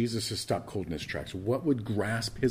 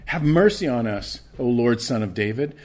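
louder, pressing cry of the blind men; crying out all the more; 3 semitones higher, 6 dB louder than usual. Acted. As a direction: raise the beggars' cry above the crowd. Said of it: "they cried out all the more".

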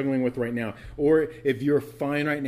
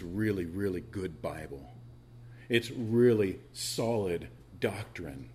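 low, slow relish; 5 semitones lower, 5 dB quieter, slower than usual. Acted. Preacher savoring the phrase.

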